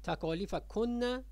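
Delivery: تکالیف کن said slowly as "takālīfakunna"; slow geminated n in تکالیف کن; doubled nun. Shown as a demonstration. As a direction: hold the n in کن, then release on "a". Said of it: "مشدد داره".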